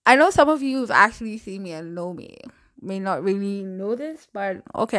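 speech thickened by a mouth appliance; talking with braces. Real, not acted. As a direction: talk around a tongue thrust appliance. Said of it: "I sound so horrible".

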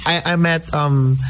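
distant, off-mic sound; speaking too far from the microphone. Real, not acted. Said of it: "you sound a little further away".

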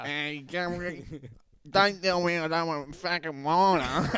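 laughing mock outburst, drawn out at first; mocking through laughter. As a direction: tease him by replaying the line while cracking up.

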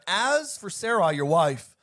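preacher proclaiming as God; God speaking. Acted. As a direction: read it as God's solemn promise, in emphatic phrases. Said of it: "Then God said to Abraham".

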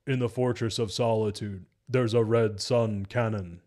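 lightly stilted mock reading; measured, wooden recital, slowing at the end; badly delivered Batman. Reviewer quoting his terrible heist-planning line, lightly stilted. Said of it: "Terrible line deliveries".

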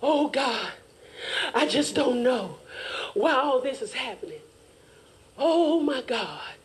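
playing dumb. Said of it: "playing dumb games".

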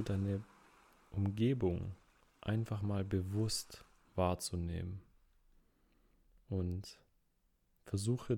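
unhurried meditation guide with long pauses; measured, calm relaxation-exercise voice; guided relaxation. Acted. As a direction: ease the listener into rest, phrase by phrase.

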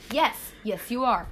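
grudging "Yes, yes, you are" tossed off; reluctant, offhand yes; ungrateful tone. Real, not acted. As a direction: say "yes" as if it's a chore. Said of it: "in that ungrateful tone".

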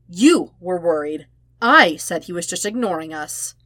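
scoffing. Acted. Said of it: "Sokka scoffed".

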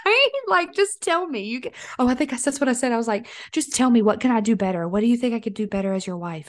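lightly hammed-up whine; funny voice. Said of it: "I'll do a funny voice".

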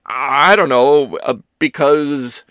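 slow, loud, halting search for words; stammering. A narrator's reading. Ethan floundering after an awkward question, stammering. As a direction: grope awkwardly for an answer. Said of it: "Ethan stammered".

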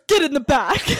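retold bossy instruction; forceful order. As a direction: order him in, half playing. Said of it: "Be forceful".

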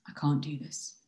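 low-key, defeated confession; subdued admission. Acted. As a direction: give up without raising the voice. Same words later, giving up.

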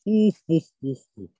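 high, slow creepy "ohoho" laugh; sinister high laugh. Acted. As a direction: cackle like a sly salesman. Salesman's laugh. (不気味な高笑い)

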